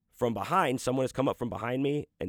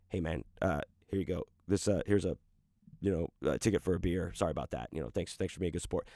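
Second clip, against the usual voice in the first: low, soft offhand apology; casual imagined apology; 5 semitones lower, 5 dB quieter, faster than usual. Retold or imitated. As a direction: mumble a casual make-good, low and easy.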